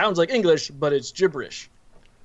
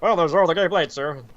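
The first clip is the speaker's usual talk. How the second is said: underling to boss; 3 semitones higher than usual. Acted. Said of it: "there's an underling and a big boss".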